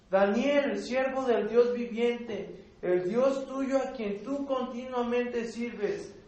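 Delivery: loud, slow sorrowful call; calling out sadly. Acted. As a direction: call down into the pit with a grieving voice. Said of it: "llamó a voces a Daniel con voz triste". (llamado fuerte y lento, con tristeza)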